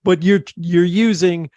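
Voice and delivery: high, challenging New York voice; New York accent. Retold or imitated. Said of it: "He goes".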